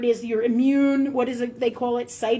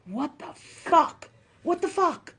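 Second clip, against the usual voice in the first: stunned disbelief; 4 semitones higher, 4 dB quieter, slower than usual. Retold or imitated. Reacting to ER doctor's remark.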